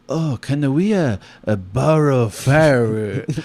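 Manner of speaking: slow, lightly put-on Asian accent. Campers ask a second time for firewood, mild Asian accent. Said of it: "they're like".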